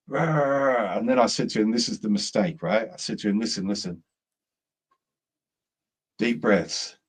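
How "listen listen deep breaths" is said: calm, soothing. Retold or imitated. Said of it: "trying to do the real calm".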